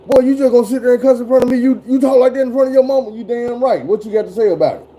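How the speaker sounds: mock an adult daring a kid to keep cussing; scolding grown-up.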